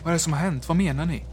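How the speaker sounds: calling out. A narrator's reading. Signalman running toward the figure, calling out. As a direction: shout the question as you run up. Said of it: "ropade jag".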